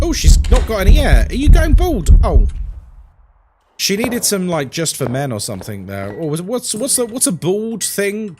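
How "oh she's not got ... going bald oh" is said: high, loud outburst; loud exclaiming. Real, not acted. Streamer remarking that she might be going bald, loud exclaiming. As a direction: call it out loudly, pitched up.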